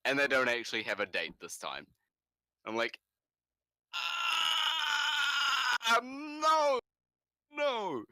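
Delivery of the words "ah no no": high anguished cry of no; mock despairing shriek; anguished wail. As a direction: wail it like your heart breaks. Anguished reaction to delay.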